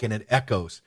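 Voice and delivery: normal talking voice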